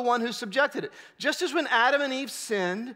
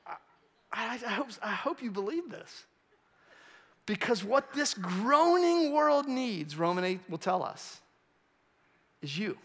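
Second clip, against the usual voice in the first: sincere; 5 dB quieter than usual. Real, not acted. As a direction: plead it gently. Earnest soft appeal.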